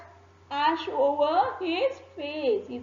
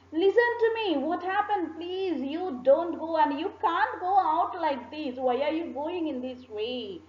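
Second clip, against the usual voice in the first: shouting wife; 5 semitones higher than usual. Acted. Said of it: "his wife was shouting".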